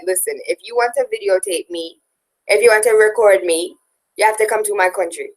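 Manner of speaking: badly imitated Jamaican accent; clumsy mock Jamaican accent; horrible Jamaican accent. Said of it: "that was a horrible accent".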